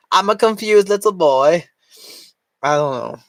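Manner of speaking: put-on high, whiny little boy voice. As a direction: play a confused little kid.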